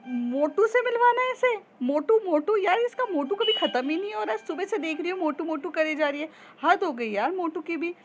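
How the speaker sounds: jealous friend ranting, high and quick; mocking rant. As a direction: rant at her nonstop talk.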